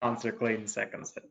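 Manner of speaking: flat, even, uninflected read; monotone voice. Real, not acted. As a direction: drone it without any pitch movement. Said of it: "Your monotone voice".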